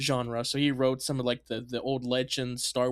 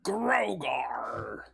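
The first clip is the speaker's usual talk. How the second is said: whispered. Acted. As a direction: whisper "Grogar" unvoiced and slow. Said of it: "we do call Grogar Grogu".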